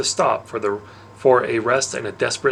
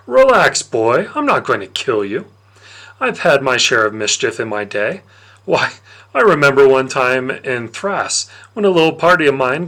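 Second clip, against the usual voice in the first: sly Dionysus; 3 semitones higher, 4 dB louder than usual. Acted. Dionysus taunting the boy who drank his wine, smug and loud. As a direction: savour the gotcha like a smug god.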